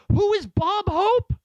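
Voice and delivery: put-on high, loud, slow puzzled child voice; baffled little kid. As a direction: play your younger self, drawn out and bewildered. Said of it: "And I was like".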